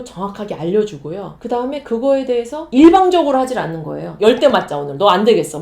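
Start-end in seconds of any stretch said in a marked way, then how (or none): 4.2-5.6 harsh parent. Retold or imitated. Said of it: "막 이게 아니라".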